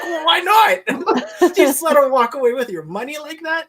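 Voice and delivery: high, laughing, slowed incredulous question; laughing disbelief. Retold or imitated. Retelling asking the pin manager, laughing in disbelief.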